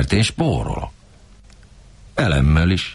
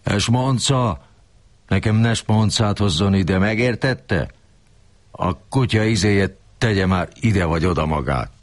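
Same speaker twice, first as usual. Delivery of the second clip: higher, scolding boss voice; mock cursing; 5 semitones higher than usual. Kurilla cursing at the narrator, higher scolding. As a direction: scold him like Kurilla did. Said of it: "lekáromolt a tíz körmömről".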